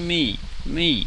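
hard emphasis on each repeated "me". Acting out a quoted speaker's words, stressing 'me'. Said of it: "That's the tone of his voice here".

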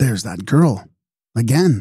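mix of pleasure, surprise and apprehension. An older man turns with a start, as though called by name: pleased, surprised, apprehensive. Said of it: "his voice expressed a curious mingling of pleasure, surprise, and apprehension".

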